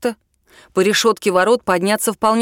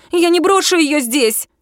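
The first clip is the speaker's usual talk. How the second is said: indignant; 8 semitones higher than usual. A narrator's reading. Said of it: "возмутилась девчонка-подружка".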